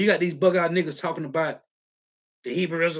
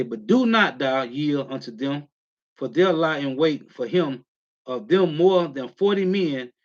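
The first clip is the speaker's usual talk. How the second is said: slow, deliberate scripture reading; slower than usual. Shown as a demonstration. Preacher rereads Acts twenty-three slowly so the group follows. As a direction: take each word of the verse slowly. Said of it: "Let me read this slow".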